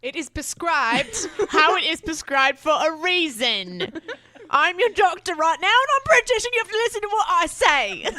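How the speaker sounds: loud, high mock Australian doctor scolding. Doctor friend scolding her about skipping medication, mock Australian accent. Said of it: "Sandra yelled at me in an Australian accent".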